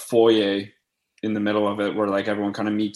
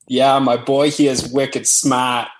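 put-on Boston accent, drawn out and a bit louder; 4 dB louder, slower than usual. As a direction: play up a Boston accent on a retold boast. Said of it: "With the Boston accent".

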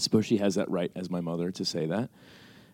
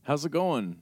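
lightly voiced higher-pitched mom; imitating mom; 6 semitones higher, slower than usual. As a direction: greet your son like a mom on the phone. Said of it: "my mom called me".

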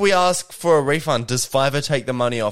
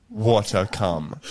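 bored; 5 semitones lower, much slower than usual. Retold or imitated. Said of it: "She sounds so like".

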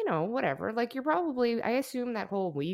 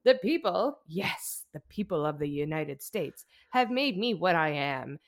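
put-on loud, high, slow drunken orator; drunk speech; 7 semitones higher, 6 dB louder than usual. Vice president drunkenly ranting his inauguration speech, loud and slurry. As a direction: bellow it out like a plastered vice president. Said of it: "can I give you a little of the speech".

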